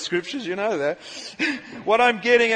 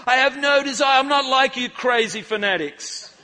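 retold refusal; 5 semitones higher, 4 dB louder than usual. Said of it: "Jesse says to the Oldfield family".

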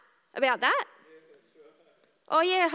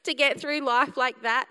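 incredulous laugh at her past self; laughing in disbelief; 3 dB louder than usual. Retold or imitated. Looking back at her younger self, laughing in disbelief. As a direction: laugh it off, amazed she had friends. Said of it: "you think".

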